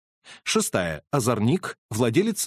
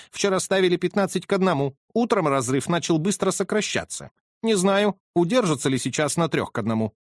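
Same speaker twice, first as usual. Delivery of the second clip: higher, quick and uneasy; worried colonel; 6 semitones higher than usual. Acted. Colonel puzzled by the falling odds, higher and quick. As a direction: rattle off the odds nervously.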